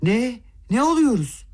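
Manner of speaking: high, shocked shriek of disbelief; horrified outcry. Acted. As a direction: cry out, stunned and appalled. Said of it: "dehşetle haykırdı birden". (dehşet içinde, yüksek perdeden haykırış)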